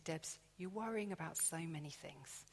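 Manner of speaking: soft, sinking to a whisper at the end; God quietly reassuring the worried Debs; hushed reassurance. Retold or imitated. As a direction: comfort her gently, fading to a whisper. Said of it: "he's always saying to me".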